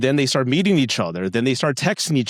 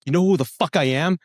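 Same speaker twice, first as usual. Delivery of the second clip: indignant boast, climbing higher to the end; puffed-up mock outburst; mock losing temper; 4 semitones higher than usual. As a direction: play at pulling rank in a huff. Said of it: "lose your temper one day".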